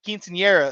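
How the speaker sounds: "Quinceañera" said flat and English, no rolled R; anglicized pronunciation. Retold or imitated. Podcast guy mispronouncing, "Quinceañera" said flat and English. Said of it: "he's like".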